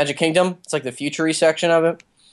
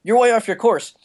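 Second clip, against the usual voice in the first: higher-pitched attempt at a slipping British accent; light impression of an actor's imperfectly hidden British accent; imitating John Boyega; 5 semitones higher than usual. Retelling a ride cameo to podcast friends, lightly attempted British accent. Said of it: "his accent, 'cause he's British".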